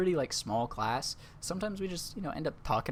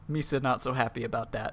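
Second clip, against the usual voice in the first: Jar Jar voice. Retold or imitated. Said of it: "just goes".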